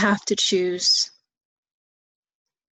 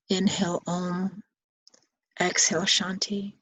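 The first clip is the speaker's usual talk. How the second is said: mantra with breath. Shown as a demonstration. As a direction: breathe the words as you guide. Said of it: "you could inhale Om, exhale Shanti".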